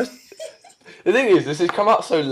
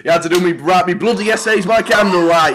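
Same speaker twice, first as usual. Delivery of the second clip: mock hard-times grumbler; 3 semitones higher, 4 dB louder than usual. Northerner moaning about the three-day week, grumbling in mock outrage. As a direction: complain like an old-timer recalling hardship.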